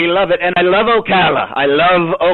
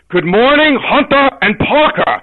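higher, louder Pacino greeting; 8 semitones higher, 4 dB louder than usual. Shown as a demonstration. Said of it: "as Al Pacino, he would say".

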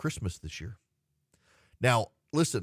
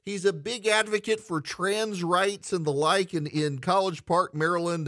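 game show winner reveal; 9 semitones higher than usual. Acted. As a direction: belt it like the big prize reveal.

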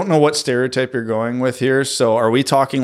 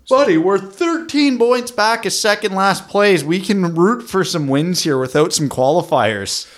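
high-pitched Canadian Letterkenny drawl; heavy rural Canadian accent, slow; 8 semitones higher than usual. Real, not acted. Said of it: "how much more Letterkenny he gets".

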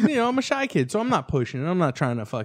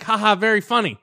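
imitated girl; 6 semitones higher, 3 dB louder than usual. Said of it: "She's like".

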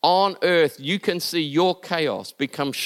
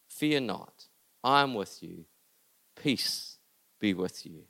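soft, lower, fading into a whisper; hushed comfort; 10 semitones lower, 9 dB quieter than usual. Acted. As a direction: whisper the promise close. Voices Jesus comforting softly.

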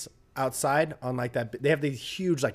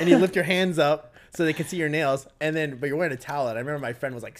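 ordinary talk

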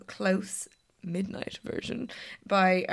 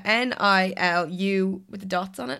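spelling it out; 3 dB louder, slower than usual. Shown as a demonstration. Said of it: "very difficult name".

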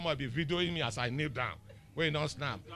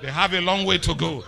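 louder, laughing delivery; laughing quote; 2 semitones higher, 6 dB louder than usual. Retold or imitated. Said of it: "God Spirit say".

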